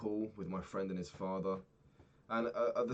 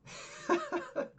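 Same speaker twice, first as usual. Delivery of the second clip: high laugh; 5 dB louder than usual. Real, not acted. Laughing at the friend's dad.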